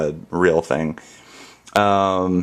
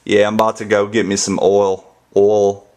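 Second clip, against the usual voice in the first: Southern imitation. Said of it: "people down here would be like".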